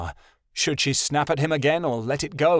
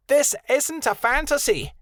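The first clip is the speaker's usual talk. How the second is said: put-on higher, mildly harsh young wolf; higher, mildly harsh rebuttal. A narrator's reading. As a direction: say it harshly, dismissive. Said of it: "Rebecca said harshly".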